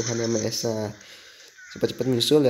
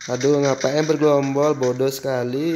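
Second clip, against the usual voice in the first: annoyed; 3 semitones higher, 5 dB louder than usual. Real, not acted. Teammates bunching up in game.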